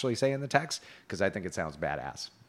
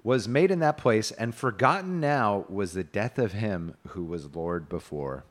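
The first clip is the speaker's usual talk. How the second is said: put-on measured reading of an old romance; tale narration; 3 dB louder, slower than usual. A narrator's reading. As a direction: read it out formally, settling at the end. Reads medieval tale aloud.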